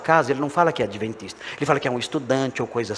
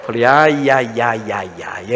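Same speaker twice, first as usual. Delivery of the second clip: mock dread; 4 semitones lower, slower than usual. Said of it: "É hoje que eu vou tomar um couro".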